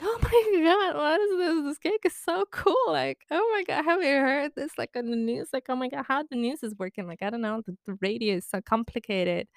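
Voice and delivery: very high squealing airhead gush; hammed-up bimbo squeal that starts high and trails off; mock bimbo. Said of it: "pretending to be, like, a bimbo".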